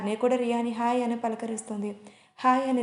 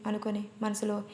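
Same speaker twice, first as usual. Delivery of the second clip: ordinary delivery, nothing marked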